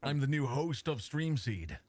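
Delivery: put-on proper English presenter; slow, lightly English host voice. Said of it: "when you put that voice on, you sound proper English".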